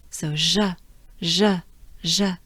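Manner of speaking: je said soft with forward jaw. Shown as a demonstration. Teacher drills soft je for learners. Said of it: "With a soft je".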